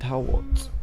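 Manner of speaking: high silly squeak; squeaky high question. Pretend. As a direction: pitch it way up playfully. Repeating question playfully.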